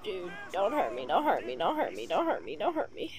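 deep repeated begging; low mock plea for mercy; low pleading.

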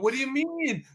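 lightly put-on baffled blonde; mock dumb blonde. Man mimicking his ex not getting it, mock clueless. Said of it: "there's that dumb blonde".

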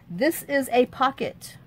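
slow, even robot voice. Pretend. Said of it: "Says the robot".

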